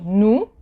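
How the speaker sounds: "nous" said as noo, no S; silent final S. Shown as a demonstration. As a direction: leave the S off "nous", ending on the oo. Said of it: "you don't pronounce it".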